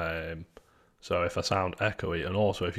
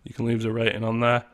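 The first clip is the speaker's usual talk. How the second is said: big hall echo. Real, not acted. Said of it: "I sound very echoey".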